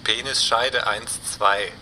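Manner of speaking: slow and careful, each word set apart; slow, deliberate. Acted. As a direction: spell out the password slowly. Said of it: "Das Codewort war".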